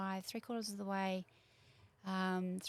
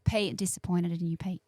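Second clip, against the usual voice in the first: mock scolding; 6 dB louder than usual. Mock scolding absent Pete.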